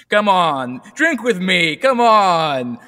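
pushy host. Acted. Host pouring drinks for people, cajoling. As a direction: urge them to drink, playfully pushy.

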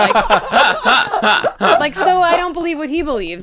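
laughing through the words. Real, not acted. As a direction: giggle while you say it. Laughing through the mock confession.

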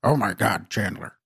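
a hint of nasal Janice; Janice impression. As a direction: lightly imitate the nasal Oh my God. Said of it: "doing an impression of her".

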